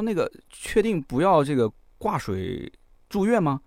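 slow, hesitant and nervous; timid question. Retold or imitated. Nervous patient asks the doctor, slow and timid. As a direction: ask it as if afraid of the answer. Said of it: "我就战战兢兢的还问了一句".

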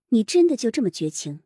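trembling, worn-out voice; a trembling tired question; shaky voice. Acted. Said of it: "颤着声音从嗓子口发出来".

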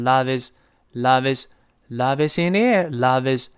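"love is" run together as "lo-vis"; linked words. Shown as a demonstration. Teacher showing linking, joining the words. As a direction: slide the v of "love" into "is". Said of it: "连在一块读成".

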